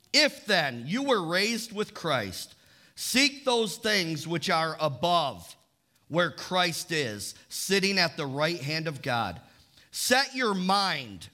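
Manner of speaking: slow, deliberate scripture reading. Acted. Pastor reading Colossians to the congregation, slow and measured. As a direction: read the verse out slowly, phrase by phrase.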